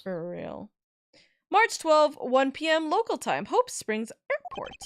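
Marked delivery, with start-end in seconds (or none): 1.5-4.7 dramatic announcement. Acted. Announcing time and place caption.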